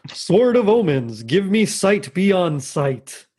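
a light Lion-O hero voice, drawn out; Lion-O impression. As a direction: call it out like a hero raising his sword. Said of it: "I'm gonna try anyway".

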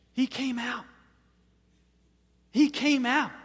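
triumphant. Real, not acted. Triumphant repeated announcement.

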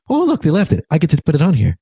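high, happy discovery of a chore; the husband, gladly taking on the task; cheerful delight. Retold or imitated. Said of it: "he just started saying".

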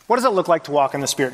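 fast, rattled-off restating of the question; quick repeat. Shown as a demonstration. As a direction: toss it off quickly, as a recap. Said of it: "So what does it look like".

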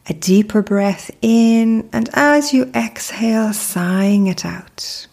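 calm, unhurried meditation guide with long pauses; measured, soothing mindfulness narration; guided meditation. Acted. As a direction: lead the listener gently into stillness, pausing between phrases.

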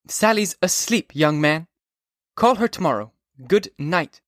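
put-on an old woman annoyed at a late-night call; stern grandmother. A narrator's reading. Grandmother scolds Holden for calling so late.

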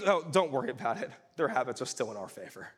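offhand devil. Retold or imitated. Preacher retells the devil's casual dismissal, quick offhand mumble. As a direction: toss it off like it's nothing. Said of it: "he goes".

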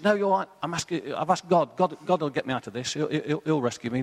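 man on the branch refuses the boatman, mock shout; stubborn cliff man. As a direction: wave help away, sure God will come. Man hanging from cliff answers.

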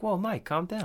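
high, unforced imitation of a peacemaker; calming friend. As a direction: lightly act out talking someone down. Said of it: "And Hatch is like".

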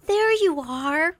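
glad, lingering "There you are" with a lift on "There"; warm greeting. Shown as a demonstration. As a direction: greet them as if delighted to see them. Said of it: "as though you were saying".

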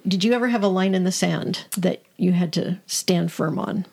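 ordinary talk

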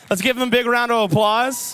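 rally the room to clap; calling for applause. Real, not acted. Host inviting the ministry team on stage, rousing shout.

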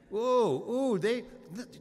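high, excited ooh-ooh of eager disciples. Retold or imitated. Preacher voicing James and John, high and eager. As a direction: bounce up high like eager schoolboys.

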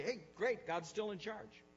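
high, loud, cheery answer; upbeat reply. Retold or imitated. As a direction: answer the greeting with emphatic good cheer. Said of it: "And I'll say".

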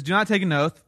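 "Do not take an oath" stated as an emphatic order; firm command. Retold or imitated. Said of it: "There's a command there".

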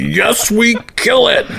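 very high, eager creature voice; second head of the monster, squeaking yes; high squeaky monster head. Acted. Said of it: "I like that voice".

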